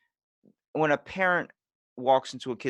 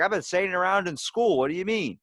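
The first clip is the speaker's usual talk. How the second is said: clueless protest; 9 semitones higher, 4 dB louder than usual. Retold or imitated. Clueless kid protests to mom.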